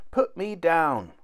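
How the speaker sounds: high, drawn-out little shout; tiny-voiced shout. A narrator's reading. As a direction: shout like someone teeny tiny. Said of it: "shouted Tom's teeny tiny voice".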